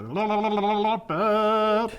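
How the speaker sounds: fluster into a run of la-la-la; tongue-tied nonsense babbling; frustrated flub babble. Real, not acted. Flubbed line, babbles it off.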